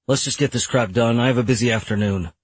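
understated impatient grumble; grumbling. Acted. Lawyer wants the settlement meeting over, mildly grumbling. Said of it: "I grumbled".

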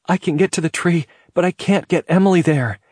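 high, urgent yell. A narrator's reading. Trapped mother calls down to the man below, yelling. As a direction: call it down from a height, urgently. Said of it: "and yelled".

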